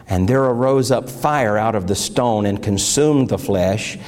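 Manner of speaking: solemn scripture reading. Acted. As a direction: read the Bible passage to the congregation. Reads scripture aloud.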